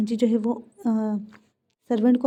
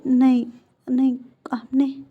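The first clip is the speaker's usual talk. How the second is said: slow, barely voiced whisper, words won't come; choked whisper; slower than usual. A narrator's reading. Wing, overwhelmed by Wang's apology, chokes out a slow whisper. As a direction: whisper it as if the words are stuck. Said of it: "विंग के मुँह से words ही नहीं निकल रहे थे".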